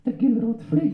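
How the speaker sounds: high, cheeky ventriloquist puppet voice; puppet character. Acted. Puppet correcting its handler, high comic voice. Puppet says its silly sentence.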